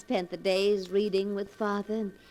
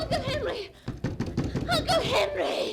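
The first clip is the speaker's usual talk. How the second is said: high, desperate calling out; frantic calling. Acted. Niece calls frantically to her uncle behind the door. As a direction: call through the locked door in panic.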